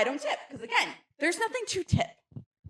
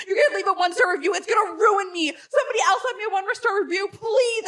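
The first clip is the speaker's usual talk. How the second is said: mock panicked pleading; 4 semitones higher than usual. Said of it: "he's like".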